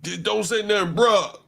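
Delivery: loud, high hammed-up cop bruh; mock cop. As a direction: bark it like a street cop. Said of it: "If he was talking about arresting".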